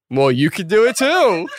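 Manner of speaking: high, eager mock-excited offer; excited invitation. Host inviting the band onto the show, excited.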